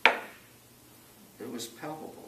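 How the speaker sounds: slow, hushed, almost breathless "palpable"; awed whisper. Real, not acted. Telling the interviewer about God's presence, in a slow awed whisper. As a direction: whisper it in awe, drawing it out.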